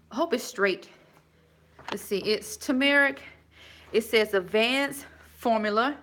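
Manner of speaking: winded from the stairs; breathless after climbing steps; out of breath. Real, not acted. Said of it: "I'm sorry, I'm out of breath".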